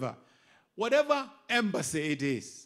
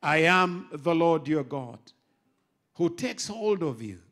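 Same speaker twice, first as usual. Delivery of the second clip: scripture proclamation; 4 dB louder than usual. Acted. Quoting scripture forcefully.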